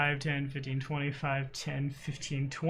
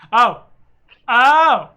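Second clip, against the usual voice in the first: surprised; 6 semitones higher, 13 dB louder than usual. Real, not acted. Realises player is muted.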